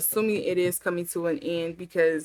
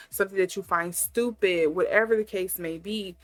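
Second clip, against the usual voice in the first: usual speaking voice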